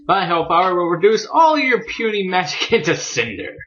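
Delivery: mild mock yell, rising in pitch; hammed-up angry threat without full volume; mock villain scream. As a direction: imitate a raging dragon's threat, half-heartedly. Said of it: "He's just screaming".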